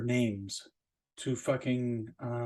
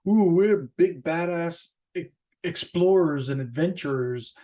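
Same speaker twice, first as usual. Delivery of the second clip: mock macho adventurer; 3 dB louder than usual. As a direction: ham up a cocky storm-chaser bragging. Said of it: "they're just out there like fucking".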